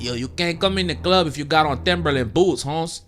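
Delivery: imitating a bouncer's Hispanic accent; lightly put-on Hispanic accent. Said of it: "he had a little Hispanic accent".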